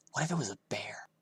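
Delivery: put-on high, wondering kid voice; little brother, curious. A narrator's reading. Younger brother asking his big brother at the bus stop, high and curious. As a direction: ask it like a worried little boy.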